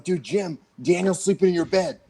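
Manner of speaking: acted-out eager little informer; excited tattling. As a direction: rush to tell on your cousin. Kids excitedly tattling to Jim, retold.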